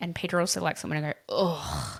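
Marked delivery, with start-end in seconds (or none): 1.3-2.0 put-on disgust, lower. Showing the disgusted sound the producer likes: put-on disgust. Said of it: "You're good at your disgust".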